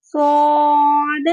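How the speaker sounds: صاد with a full, dark s and long a; emphatic صاد; heavy saad. Shown as a demonstration. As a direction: recite صاد thick and drawn out. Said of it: "صاد کو بھی ہم پور پڑھیں گے".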